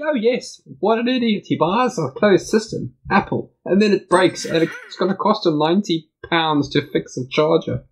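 high, sarcastic railing at a friend; hammed-up mocking rant; mock outrage. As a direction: gloat theatrically over his mistake. Mock ranting about G.

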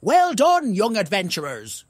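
smiling hoot. Acted. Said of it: "hooted Wally with a smile".

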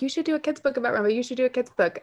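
quick, high-pitched urging fans; eager fans. Retold or imitated. Instagram followers pushing for a kid's book, quick and high. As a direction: rattle it off like excited followers. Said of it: "DMs on Instagram asking".

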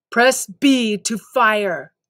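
slow mechanical game instructor; slow canned drill-sergeant prompt; robotic tutorial prompt. Acted. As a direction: repeat it like a looping game line. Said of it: "robotic prompt".

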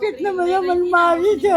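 high, tearful complaint; crying. Real, not acted. Woman tells the man she was beaten, crying. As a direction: wail it as a real hurt. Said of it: "કેમ રડો છો?".

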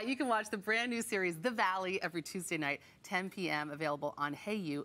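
practised presenter read, easing down in pitch; TV host promo read. Acted. Host plugging the series before commercials, TV promo read. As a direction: wrap the segment like a TV host.

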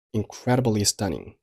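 "incredibly" given the main stress. Shown as a demonstration. Teacher modelling the last line, "incredibly" stressed. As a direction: lean on "incredibly" before "stunning". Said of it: "incredibly同样做重读".

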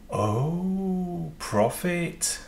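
laughing happily at a small win. Real, not acted. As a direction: laugh through the word.

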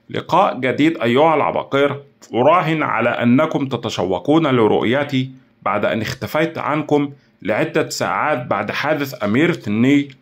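a hint of a gloating mastermind; lightly voiced taunting villain. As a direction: greet the rivals with mock cordiality.

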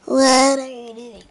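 loud, slow scolding yell; angry yell. Pretend. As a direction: bellow at him like a fed-up parent. Scolding Melvin.

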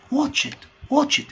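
واتش ات with a ch and t; واتش ات: ch then t. Shown as a demonstration. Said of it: "السي اتش عامل شبه تش".

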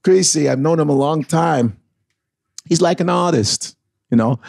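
lightly voiced Walken with halting pauses; a subtle hint of Walken, grounded; Christopher Walken impression. Shown as a demonstration. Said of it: "Get Christopher Walken".

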